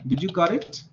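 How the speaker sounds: the T in "got" clearly sounded before "it"; T pronounced before vowel. Shown as a demonstration. Teacher contrasting rules, T of "got" linked to "it". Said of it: "the T is going to be pronounced".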